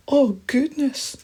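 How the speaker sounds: high, slow, loud squeal of alarm; frightened mouse. Acted. Mouse hearing rustling bushes, high and frightened. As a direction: gasp it out high and scared.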